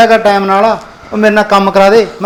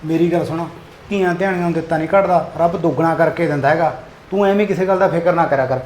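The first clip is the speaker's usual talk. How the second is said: soft, even-pitched soothing; calm reassurance; 7 dB quieter than usual. Acted. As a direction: talk the worry down quietly. Husband calming his worried wife.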